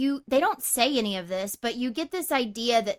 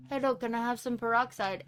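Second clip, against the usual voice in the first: imitating woman voice; 5 dB quieter than usual. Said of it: "his woman voice".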